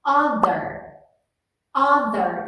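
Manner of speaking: "Other" with the tongue between the teeth and a buzzing th; voiced th. Shown as a demonstration. Teacher showing students a voiced th in "other". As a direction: vibrate the th in "Other". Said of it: "Tem T H".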